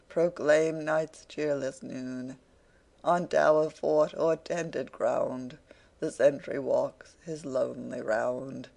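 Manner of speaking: slow, declaiming poem lines; recited verse. Retold or imitated. Wegg reciting a ballad to Venus, slow and declaimed. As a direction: intone it like a ballad. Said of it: "in the words of a friend".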